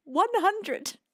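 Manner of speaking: whispered, voiceless disbelief; stunned. Real, not acted. Streamer stunned by one hundred gifts, whispering. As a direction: breathe it out in shock, barely voiced. Speechless at the gift.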